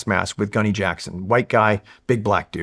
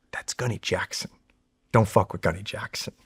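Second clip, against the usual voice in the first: hushed warning; 3 semitones lower, 8 dB quieter than usual. Retold or imitated. Corporal warning about the gunny.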